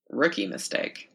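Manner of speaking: slow, drawn-out mild sarcasm; sarcastic. A narrator's reading. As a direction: say it slowly with a sarcastic edge. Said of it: "her tone sarcastic".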